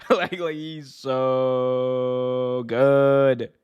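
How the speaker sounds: extremely drawn-out words, almost sung; overwhelmed fan dragging out the praise; gushing admiration. Real, not acted. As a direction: stretch every word in fan awe. Gushing over the clip just played.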